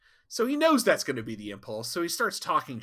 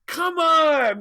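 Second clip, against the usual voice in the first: high, loud, shorter Come on! falling at the end; second exasperated yell; 8 dB louder than usual. Retold or imitated. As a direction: hit it again, clipped and fed up. Tom pleading to Janeway.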